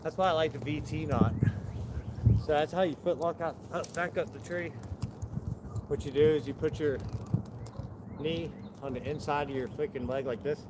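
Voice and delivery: breathless, panting between phrases; out of breath. Real, not acted. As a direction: talk while catching your breath. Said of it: "Sorry, I'm out of breath".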